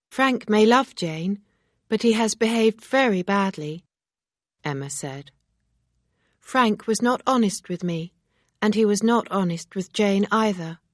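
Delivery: reproachful young woman, lightly voiced; Emma, earnest and disapproving. Emma speaks in dialogue.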